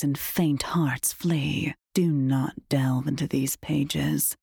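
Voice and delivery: slow, grave tale-telling; dark foreboding tale, slowly; ominous storyteller. Acted. Character tells a grim tale.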